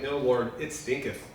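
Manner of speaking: a hint of a disgusted sister; mild mock protest from Mary. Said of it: "Mary's like".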